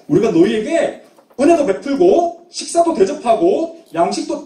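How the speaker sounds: mild, indignant scolding of wrongdoers; 따지는 호통. Acted. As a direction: open with a high burst, then press the accusation. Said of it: "막 따졌던 거예요". (따져 묻는 듯한 꾸짖음)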